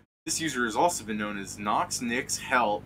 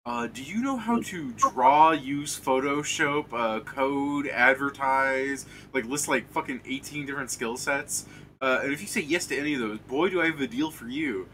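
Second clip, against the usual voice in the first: higher, lightly imitated online sales pitch; retold scammer pitch; 4 semitones higher than usual. Retelling a stranger's Steam message to friends, lightly mimicked sales pitch. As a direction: reel off a mock recruiter's offer. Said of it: "some guy ... just hits me up going".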